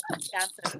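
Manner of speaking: "Wisconsin" as a Wisconsin local says it, softly; Wisconsin accent. Shown as a demonstration. Guest corrects an Illinois-sounding attempt, Wisconsin accent. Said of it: "like, the actual Wisconsin accent".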